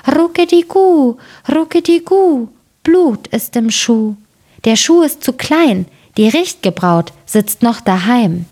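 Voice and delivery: high, cooing singsong rhyme; storybook bird call, easing down at the end; calling doves. A narrator's reading. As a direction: coo it high like a dove, drawing out the vowels. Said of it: "die zwei Täubchen ... riefen".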